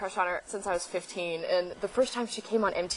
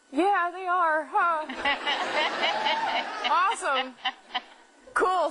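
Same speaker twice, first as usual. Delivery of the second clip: high, louder words through laughter; giddy laughing; 8 semitones higher, 3 dB louder, slower than usual. Retold or imitated. Flustered fan agrees with her crush, laughing and loud. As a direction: laugh while trying to sound cool. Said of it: "And I'm like".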